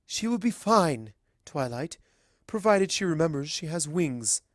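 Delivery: a hint of a wry, unruffled queen; calm princess. Celestia reassures Twilight.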